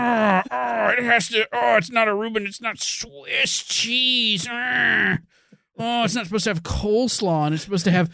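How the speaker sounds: high, fussy, sneering know-it-all; mock the pedantic sandwich snob; snobby purist voice.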